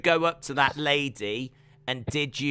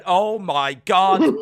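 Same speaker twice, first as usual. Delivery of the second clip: mock panic; 5 dB louder, much slower than usual. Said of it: "backstage going".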